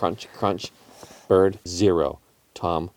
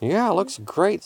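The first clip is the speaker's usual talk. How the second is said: cat voice; 10 semitones higher than usual. A narrator's reading. Tom the cat speaks.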